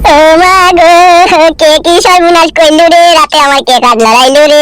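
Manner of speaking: slow, drawn-out mock lament; comic wail. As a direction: wail it out slowly like a hammed-up mourner. Husband wails over the bed. (ধীর টানা নাটুকে বিলাপ)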